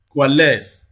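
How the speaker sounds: coalesce with LESCE strong and falling; stress on last syllable. Shown as a demonstration. Teacher offers another example of the rule, coalesce stressed on LESCE. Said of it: "last syllable receives the primary stress".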